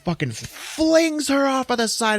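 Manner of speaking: high, emphatic exclamation; hammed-up climax; excited storytelling. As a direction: fling the words out with the action. Storyteller acts out the violent fling.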